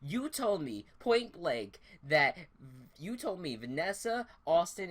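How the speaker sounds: heated retold rant, names hit one by one; mock angry Meg. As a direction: replay the houseguest's furious accusation, slowing on each name. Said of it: "Meg got so mad".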